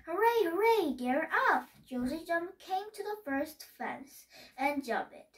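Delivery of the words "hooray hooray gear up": louder, higher cheer; cheering crowd. A narrator's reading. Crowd cheering as the race begins, excited cheer. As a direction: cheer loudly as the race starts. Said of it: "crowd cheered".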